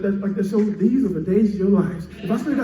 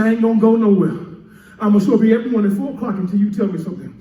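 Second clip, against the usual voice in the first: fierce vow; faster than usual. Acted. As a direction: refuse to let go. Vowing prayer, fast, loud.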